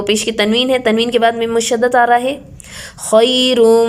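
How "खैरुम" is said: खैरुम with a held nasal म into मिन; nasal merge. Shown as a demonstration. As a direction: recite खैरुम humming the म. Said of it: "साथ में गुन्ना भी हो रहा है".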